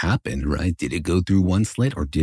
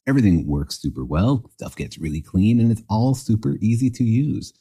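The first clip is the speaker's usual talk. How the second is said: ad read; 2 semitones higher than usual. Acted. Host reads sponsor ad.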